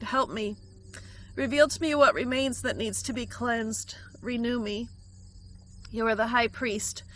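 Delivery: journal prayer read with feeling; earnest prayer. Acted. Reads her journal prayer.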